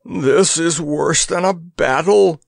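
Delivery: high, slow, far-gone moan. Acted. Grandpa moaning to Tatters, high and slow. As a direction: moan it like a dying soldier. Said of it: "moaned Grandpa".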